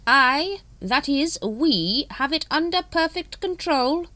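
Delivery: high, slow, assured leader's voice; smooth. A narrator's reading. Supreme Grand Master reassuring the brethren, smooth. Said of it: "Supreme Grand Master smoothly".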